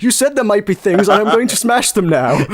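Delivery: high, fast pleading to smash pots; mock whiny insistence. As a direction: beg like a kid who must smash everything. Insisting to the dev.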